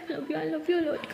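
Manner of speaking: drawn out, loving; slow, soft declaration of love; slow tender. Acted. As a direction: stretch each word with love. Pari repeating it, drawn out.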